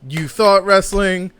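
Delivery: slow promo voice, then a loud "Lies"; mock taunting promo. Wrestler's promo taunting the fans, slow then a loud last word. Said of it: "Mick Foley's music plays".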